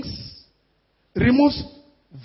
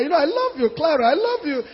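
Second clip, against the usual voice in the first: pleading husband; 3 semitones higher, faster than usual. Acted. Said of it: "he will call her".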